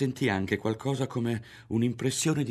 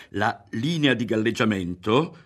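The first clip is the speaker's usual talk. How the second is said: "La linea di galleggiamento" with every word pressed and weighted, a little louder; stressing each word; 3 semitones higher, 5 dB louder than usual. A narrator's reading. Berto explaining to Ario, pressing on "La linea di galleggiamento". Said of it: "calcando su quelle parole".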